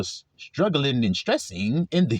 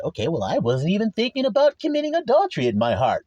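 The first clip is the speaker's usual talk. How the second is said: higher mock protest; defensive protest; 4 semitones higher than usual. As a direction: play someone making excuses, pitch climbing. Acted defensive objection.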